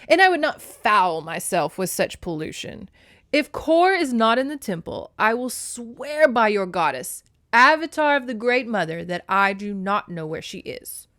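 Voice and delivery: loud, emphatic swearing of innocence; indignant Zeus. A narrator's reading. Zeus swears to Demeter he is innocent, indignant. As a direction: protest as a stately, offended god. Plays Zeus denying the charge.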